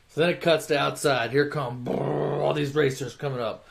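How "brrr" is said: rolling engine imitation; engine noise. Racers pulling up outside, imitated engines. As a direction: trill like approaching cars.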